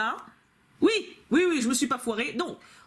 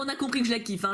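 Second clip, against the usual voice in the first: ordinary delivery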